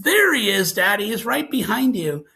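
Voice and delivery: put-on startled kid's call, easing off; retold little boy. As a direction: imitate a child pointing out an intruder. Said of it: "and he goes".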